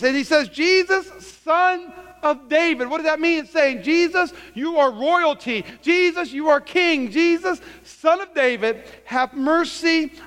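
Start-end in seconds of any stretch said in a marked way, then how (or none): 0.5-2.9 high, emphatic cry; raised preaching cry; acted shout. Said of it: "He shouted". 3.8-10.1 raised, slow proclaiming cry; impassioned plea, pitched high; acted shout. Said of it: "He shouted".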